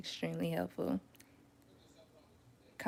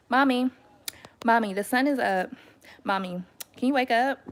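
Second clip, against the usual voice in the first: a light mock little-kid voice, higher and louder; child's voice; 4 semitones higher, 7 dB louder than usual. Little daughter waking her sleeping mom, mock child voice. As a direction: imitate a small girl pleading to wake Mom.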